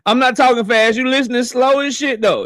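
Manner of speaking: laughing retake; laughing repeat. Shown as a demonstration. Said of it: "repeat of the line".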